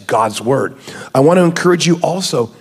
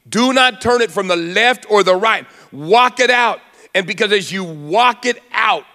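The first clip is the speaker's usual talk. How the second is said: raised, emphatic sermon delivery; impassioned preaching; 4 semitones higher than usual. Acted. Preacher urging the church to believe God's promise, impassioned. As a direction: preach it with measured force and higher pitch.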